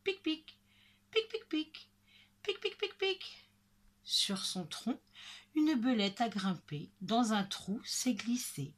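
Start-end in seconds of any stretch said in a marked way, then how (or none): 0.0-3.5 high, staccato "pic" noises; tiny pecking squeaks, high-pitched; squirrel chirps. Acted. Narrator voices the squirrel's sound. (petits « pic » aigus et piqués)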